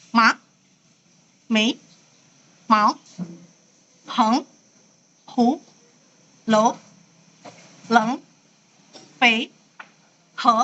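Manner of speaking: each syllable from "Ma" to "he" short and rising; second tone drill. Shown as a demonstration. Teacher practising tone two for students, each word rising. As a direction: lift every syllable like a question. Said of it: "praktikan dulu ya".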